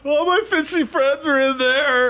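high, drawn-out wail; mock grief. Submariner mourning his fishy friends, hammed-up wailing. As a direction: lament in hammed-up anguish, pitched high.

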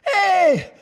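high, shouted morning-zoo DJ hype; hammed-up emcee yell; radio host introduction. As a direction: fire up the crowd like a rock-station emcee. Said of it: "the guy comes out to introduce me".

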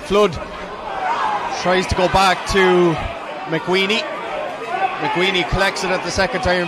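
excited play-by-play. Real, not acted. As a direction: call the attack as it builds, urgent. Live play-by-play of an attack.

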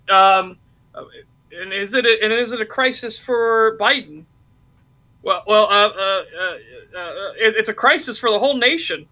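stammering mayor. Retold or imitated. Mocking the New York mayor on CNN, a flustered stammering voice. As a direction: hem and haw like a cornered politician.

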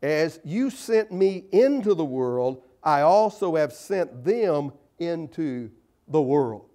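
scripture reading. Acted. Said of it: "where he says".

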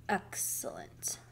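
low, slow, soft mumble; drowsy, drawn-out murmur; sleepy mumble. A narrator's reading. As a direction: mumble it very low, half asleep. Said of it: "mumbled Mister Watson".

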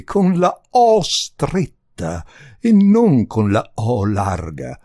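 slow, loud, drawn-out lament; moaning. A narrator's reading. Countess explaining the vowel to the visitor, moaning. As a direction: wail each vowel in dismay. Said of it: "gemé".

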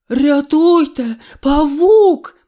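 high, loud panicked yell; screaming. A narrator's reading. Cat screams at the spider. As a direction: scream for help in terror. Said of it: "зарепетував Сніжок".

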